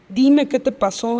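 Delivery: slow, insistent retold demand; insistent pleading. Worried friend asking what happened, slowly insistent. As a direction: press gently but firmly, word by word. Friend presses her for truth.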